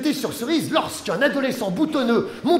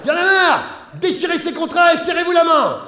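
loud, high fed-up command; exasperated shouting; 6 semitones higher, 3 dB louder than usual. Acted. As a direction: bark it to end the fight. Mother orders end of quarrel. (ordre agacé crié fort)

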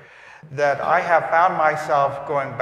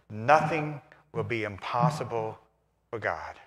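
soft quotation; 3 semitones lower, 6 dB quieter than usual. Acted. Quoting the gospel softly.

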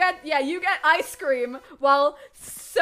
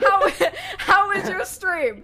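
slow, laughing cabin crew voice; higher and slow, cracking into laughter; flight attendant voice; 7 semitones higher, 4 dB louder, much slower than usual. Acted. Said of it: "talking like a flight attendant".

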